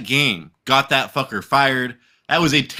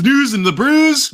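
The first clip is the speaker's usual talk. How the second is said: hyped announcer; 10 semitones higher, 5 dB louder, slower than usual. Acted. Hyping the show segment.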